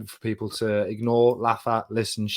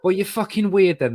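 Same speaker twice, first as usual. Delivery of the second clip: mock outrage; 8 semitones higher, 5 dB louder than usual. Real, not acted. Mock outrage over orange creams.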